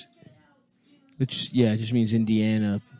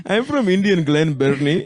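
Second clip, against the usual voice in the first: put-on Indian accent; 3 semitones higher, 3 dB louder than usual. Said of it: "saying Maryland stereotypes in an Indian voice".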